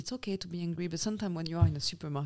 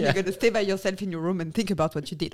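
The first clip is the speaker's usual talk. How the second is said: brisk telling-off, building louder; mock scolding mother; 5 dB louder, faster than usual. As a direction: lay down the law to a child, fast at the end. Voices a scolding mother in supermarket.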